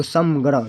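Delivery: समग्रह split as सम and ग्रह; teacher sounding out सम-ग्रह; nasal sounded as m. Shown as a demonstration. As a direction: sound the nasal of संग्रह as a clear म. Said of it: "म में हलंत लगा देंगे".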